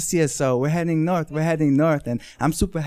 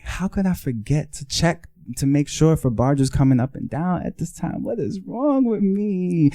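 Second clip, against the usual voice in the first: self-reproach; 4 semitones higher than usual. Retold or imitated. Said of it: "And now I'm just like".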